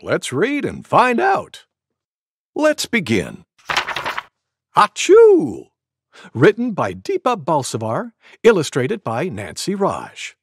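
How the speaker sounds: lively, bouncy storytime introduction; animated kids' storyteller; reading to children. A narrator's reading. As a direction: introduce a picture book to young kids. Introduces picture book to children.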